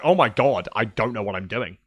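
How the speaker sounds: low, sinking voice of someone lost; retold bewilderment. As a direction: trail down quietly, imitating helpless confusion. Retells being lost in game.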